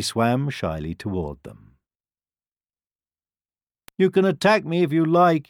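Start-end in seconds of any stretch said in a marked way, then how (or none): 4.0-5.5 timid duckling. A narrator's reading. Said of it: "he said, lowering his head".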